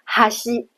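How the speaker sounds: 哈西 held level with no rise or fall; 哈西 said evenly on one pitch; flat accent. Shown as a demonstration. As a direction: keep 哈西 perfectly flat. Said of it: "没有上下起伏".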